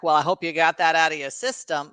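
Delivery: faint mock Groucho Marx accent for father; Groucho Marx impression of dad. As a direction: barely put on a comic Groucho voice for the father's quip. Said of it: "I don't know why I'm talking like that ... such a weird accent".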